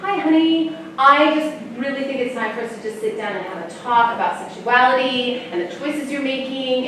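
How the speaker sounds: lightly voiced mom, high opening on "honey"; mock-sweet parent starting the big talk; a hint of an earnest TV mom; mom's earnest talk. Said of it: "his mom ... and she says".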